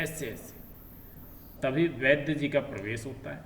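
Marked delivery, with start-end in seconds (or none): 0.0-0.6 much softer, strained ऐसे ऐसे while holding the stomach; ऐसे ऐसे pushed out quietly through the pain; pressing his belly. Acted. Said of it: "पेट को दबाते हुए बोलता है". (पेट दबाते हुए धीमी आवाज़ में ऐसे ऐसे)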